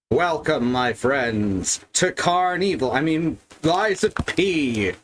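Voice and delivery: high, grand showman welcome; carnival barker. Acted.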